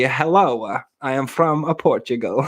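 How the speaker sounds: put-on same joke foreign accent passed off as Portuguese; mock Portuguese accent. Joker reusing one constant accent on request, mock Portuguese. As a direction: put on a slightly stilted fake Portuguese accent.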